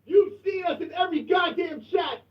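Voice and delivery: rally the community in chat; boastful hype. Real, not acted.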